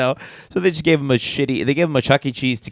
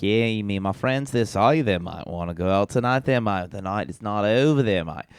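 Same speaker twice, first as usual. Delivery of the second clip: bad Australian accent; 2 semitones lower than usual. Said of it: "Did he really sound like that?".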